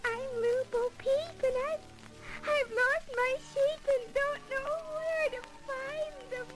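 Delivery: tearful. Acted. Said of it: "Why all the teardrops?".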